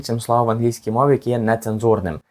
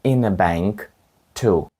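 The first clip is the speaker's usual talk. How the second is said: slow split teaching model; much slower than usual. Shown as a demonstration. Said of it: "Тепер скажіть все речення".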